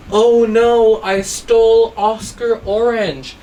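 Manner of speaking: the thief realizes his mistake, slowly; dismayed realization. Acted. Teacher to pupils, voicing a thief realizing his mistake. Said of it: "And he said".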